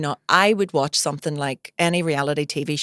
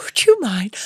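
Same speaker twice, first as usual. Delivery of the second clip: put-on posh accent; 3 semitones higher, 3 dB louder, slower than usual. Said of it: "the whisper's the posher accent".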